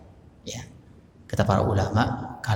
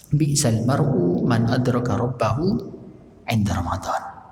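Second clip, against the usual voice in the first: slow quotation; slower than usual. Acted. Quoting Arabic saying slowly.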